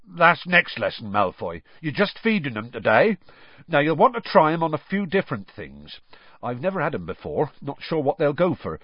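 gruffly getting on with the lesson; rough. A narrator's reading. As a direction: tell them roughly, brushing the question off. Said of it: "Then he said roughly".

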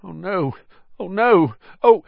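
high-pitched, escalating alarm; rising panic. A narrator's reading. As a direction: build from dread to loud panic. Ron panics at approaching creature.

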